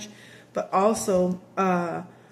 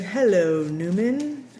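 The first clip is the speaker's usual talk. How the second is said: Seinfeld greeting; slower than usual. Retold or imitated. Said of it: "that's from Seinfeld".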